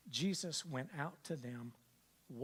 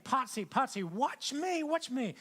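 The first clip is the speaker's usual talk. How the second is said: put-on high, loud childlike calling; playful high child voice calling out; imitating granddaughter's yell; 11 semitones higher, 9 dB louder, slower than usual. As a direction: mimic a little girl shouting from the pool. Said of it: "she's screaming at me".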